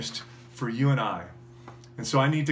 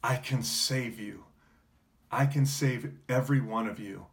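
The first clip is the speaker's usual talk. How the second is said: gentle offer. Retold or imitated. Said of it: "he would say the same words to you".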